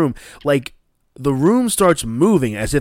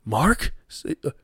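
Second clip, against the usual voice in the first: rising, higher questioning names; confused calling; 8 semitones higher than usual. Retold or imitated. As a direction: call out unsure who's there. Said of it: "It's like".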